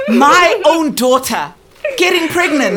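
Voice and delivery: slow, crying, words broken up; sobbing disbelief. Acted. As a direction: grief spilling over the shame. Mother breaking down.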